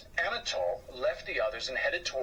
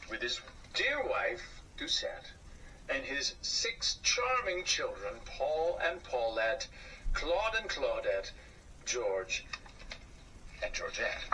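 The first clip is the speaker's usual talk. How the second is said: storybook narration. A narrator's reading. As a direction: read it like a father at bedtime. Reading a children's book aloud.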